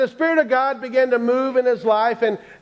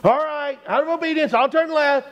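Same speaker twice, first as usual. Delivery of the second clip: higher-pitched grudging compliance; reluctant obedience; 5 semitones higher than usual. Acted. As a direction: give in to God under protest. Man reluctantly obeys the voice.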